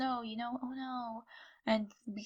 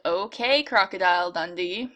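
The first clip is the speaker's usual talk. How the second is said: put-on Australian accent; 3 dB louder than usual. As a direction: play up a Crocodile Dundee accent. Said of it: "offend all Australians".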